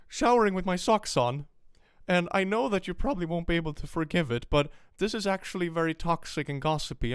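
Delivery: high, loud fake-sincere YouTuber; mock apology video. YouTuber pleads with fans in a high mock apology voice. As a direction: play the guilty creator pleading with fans. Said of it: "I bring out an ukulele and I be like".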